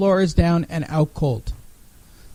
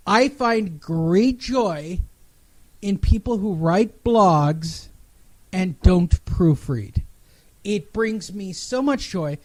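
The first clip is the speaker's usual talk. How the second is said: slow savoring; slower than usual. Acted. Mock-reverent confession of blog joy.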